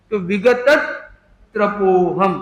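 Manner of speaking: विगत त्रपोहम with the त pulled onto विगत; split the cluster. Shown as a demonstration. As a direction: join त to विगत, then त्रपोहम. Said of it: "जो त और र है, उसका पहला अक्षर को हम इधर ले लें". (विगत्-त्रपोहम, त को पहले से जोड़कर)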